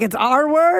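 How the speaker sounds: dad claiming the word proudly. Retold or imitated. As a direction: declare it like a proud Indian dad. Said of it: "He's like".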